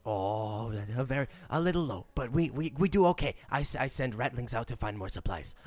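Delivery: lightly voiced fawning rat; a hint of the nervous rat lord; Rat King voice. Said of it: "your talk as the Rat King".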